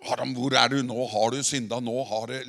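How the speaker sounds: loud booming voice of a stern God; thunderous rebuke. Shown as a demonstration. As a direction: thunder it out like a scolding judge. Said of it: "han kom ikke med en sånn tordenrøst". (dundrende tordenrøst)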